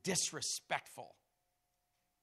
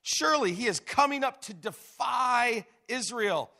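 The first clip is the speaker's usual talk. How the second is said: frightened soldiers; 7 semitones higher, 8 dB louder than usual. Acted. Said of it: "The men of Israel said".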